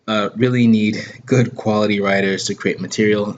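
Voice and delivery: talking through hiccups. Real, not acted. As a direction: speak with hiccups breaking in. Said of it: "I got the hiccups as well".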